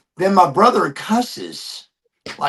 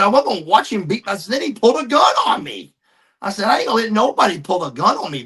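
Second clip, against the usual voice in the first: heated defense; 5 semitones higher, faster than usual. Retold or imitated. Defending himself to family.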